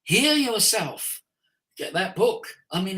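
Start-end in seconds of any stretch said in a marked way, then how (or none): 0.0-1.2 slow, spaced command. Shown as a demonstration. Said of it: "demonstrates slow delivery".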